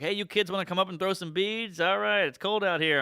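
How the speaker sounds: a hint of mothering, retold; maternal. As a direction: play a mom herding kids. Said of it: "she's very maternal".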